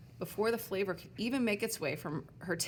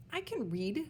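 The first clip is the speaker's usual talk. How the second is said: snapped back; 6 semitones higher than usual. Acted. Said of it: "she snapped back".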